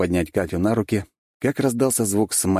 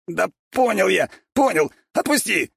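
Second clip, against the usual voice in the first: high, urgent begging in pain; 14 semitones higher, 3 dB louder than usual. A narrator's reading. Bigby begging the hero to let go. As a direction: plead to be let go.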